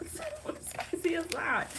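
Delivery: unvoiced awed whisper; awed whisper after the lucky find. Real, not acted. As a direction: breathe it in wonder. Whispered wonder.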